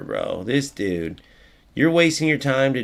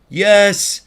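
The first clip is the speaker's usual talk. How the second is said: high, loud shout of triumph; excited cheer; 10 semitones higher, 8 dB louder than usual. Real, not acted. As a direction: cheer the play on, loudly. Celebrating a chance in the game.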